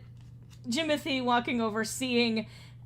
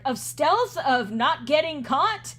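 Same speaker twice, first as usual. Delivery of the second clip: slow, louder, incredulous reproach; exasperated scolding; 4 semitones higher, 5 dB louder, slower than usual. Acted. Edgar rebukes Jimothy over lost stealth, exasperated scolding. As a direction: spell it out with irritation.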